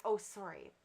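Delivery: put-on high, loud child's apology and gush; little girl correcting herself. Little girl apologising about the cat, high and loud. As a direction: squeal it like an eager kid. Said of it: "She's like".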